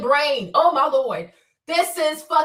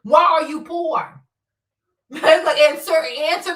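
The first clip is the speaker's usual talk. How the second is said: slow, louder, a fake crying tone; mock wail; 4 dB louder than usual. Taunting viewers who complain, in a mock crying wail. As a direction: wail it like a hammed-up sob.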